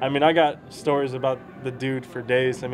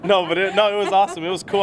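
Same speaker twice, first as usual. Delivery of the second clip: laughing; 4 semitones higher, 3 dB louder than usual. Real, not acted. Jokes then laughs it off.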